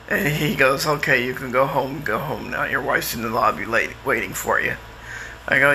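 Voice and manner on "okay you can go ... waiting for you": psychiatrist's voice. Retold or imitated. Psychiatrist quoted.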